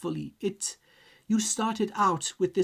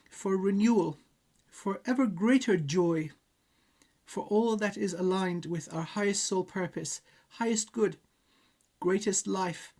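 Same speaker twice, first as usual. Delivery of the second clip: invocation prayer. Acted. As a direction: call on the divine reverently. Channelling invocation to the source.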